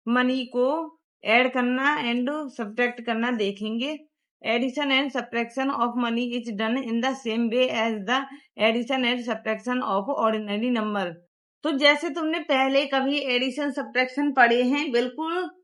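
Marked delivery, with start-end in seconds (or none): 4.4-11.1 slow dictation pace reading the rule; textbook reading. Shown as a demonstration. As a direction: read it out slowly so pupils can copy. Reads textbook rule aloud.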